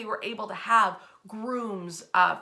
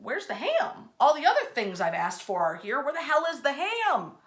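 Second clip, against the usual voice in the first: exasperated demand; 5 semitones higher than usual. Retold or imitated.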